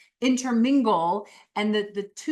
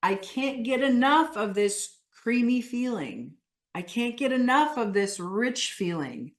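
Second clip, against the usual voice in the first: emphatic, animated; 3 semitones higher than usual. Shown as a demonstration. Coach modelling a craving for the group to repeat, emphatic. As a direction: build in emphasis through the list. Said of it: "when you say it emphatically".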